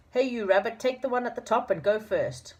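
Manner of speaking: high, lightly voiced bossy man; bossy Moonface voice. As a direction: hurry the rabbit along. Moonface orders the rabbit.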